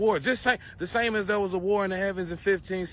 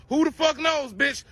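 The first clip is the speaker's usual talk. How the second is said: exasperated outburst; 6 semitones higher than usual. Real, not acted. Ranting about Elon and aliens.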